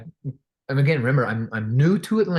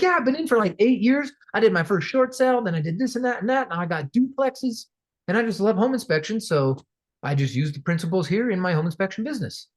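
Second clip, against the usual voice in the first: eager quote; 7 semitones higher than usual. Retold or imitated. Quoting enthusiastic inspector.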